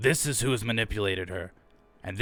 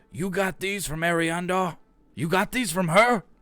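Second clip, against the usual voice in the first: put-on old man voice, pitched high; 9 semitones higher than usual. Voicing a man who walks up to the group holding papers, in an old man voice. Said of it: "he had old man voice last time, but he does this time".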